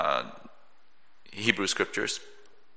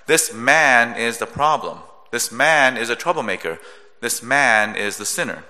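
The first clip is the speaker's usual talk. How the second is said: "man" pressed in each line, said louder; repeated louder push on "man"; stress on man; 3 dB louder than usual. Shown as a demonstration. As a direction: hammer "man" three times over. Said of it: "keyword, the man".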